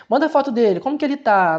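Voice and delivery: mock anxious mother asking for a photo of her baby. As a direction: imitate a fretting mom begging for news. Anxious mother texting the babysitter.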